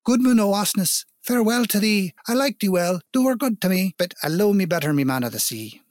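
high farewell called across the water; calling out. A narrator's reading. Selkie wife calling to her husband's boat, high and ringing. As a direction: cry out to him from the sea. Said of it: "thus she cried to him".

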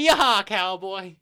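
very loud, high cowboy whoop; cowboy accent. Pretend. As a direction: holler it in a hick cowboy twang. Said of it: "Your accent, man".

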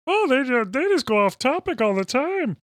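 squeaky high mock voice. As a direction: pitch way up, mocking them. Mocking high voice.

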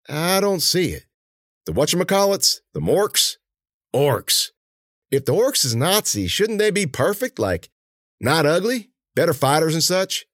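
high-pitched, doubtful henchman voice; Mueller, puzzled henchman. A narrator's reading. Henchman doubting his partner's theory about Orks, puzzled.

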